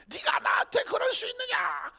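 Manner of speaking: high shouted reproach; parent's outburst. Acted. Acted mother yelling at her ungrateful child, high.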